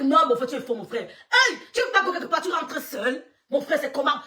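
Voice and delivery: loud teasing through laughter; laughing tease. Retold or imitated. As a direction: rib him while laughing.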